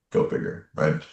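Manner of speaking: breathed almost silently; whispered aside. Real, not acted. Marveling to himself about the same name, whispered. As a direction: whisper it to yourself in wonder.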